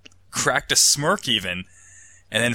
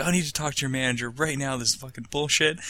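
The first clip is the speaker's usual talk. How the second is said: entitled customer; 5 semitones higher than usual. Retold or imitated. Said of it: "give him a whole bunch of shit. Be like".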